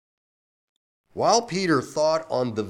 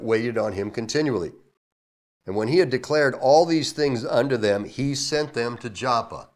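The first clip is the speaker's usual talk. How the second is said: a slightly louder, formal Bible reading; scripture reading; 3 dB louder than usual. Acted. Pastor reading the verse aloud to the church, formal. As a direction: read the King James verse out to the congregation.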